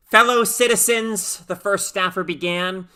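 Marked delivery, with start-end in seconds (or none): 0.1-1.4 high, loud, sharp opening; cutting address. A narrator's reading. First staffer addressing the crowd, cutting and loud. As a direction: slice through the air with it. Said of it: "her voice sliced through the heavy air like a katana".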